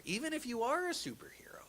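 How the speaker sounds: soft whispered tag-on; whispered aside. Acted. Dramatic closing aside.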